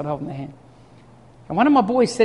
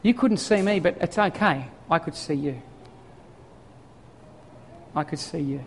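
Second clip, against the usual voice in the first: tender reassurance; 4 dB quieter than usual. Retold or imitated. Dad reassuring his frightened son, tender. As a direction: comfort a scared child gently. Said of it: "what came out of my mouth".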